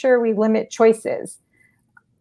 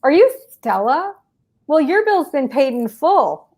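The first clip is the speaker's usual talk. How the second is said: reassuring; 4 semitones higher than usual. Shown as a demonstration. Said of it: "So I say".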